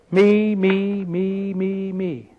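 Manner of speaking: mock the pity party, trailing off. Preacher mocking the soul's pity party, whiny. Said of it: "Oh, a big pity party".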